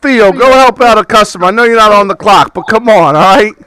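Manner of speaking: lightly voiced eager bookstore owner; pushy shopkeeper. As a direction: welcome the customer like a pushy shopkeeper. GM voices Tony.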